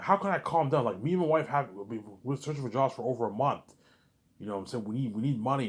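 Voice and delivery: mock yell. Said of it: "I'm yelling, I'm yelling at the".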